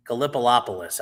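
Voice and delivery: "Gallipolipolis" with doubled middle syllables; garbled pronunciation. Shown as a demonstration. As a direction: stumble through "Gallipolipolis" as guh-lip-uh-LOP-uh-liss. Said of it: "how did you pronounce Gallipolis".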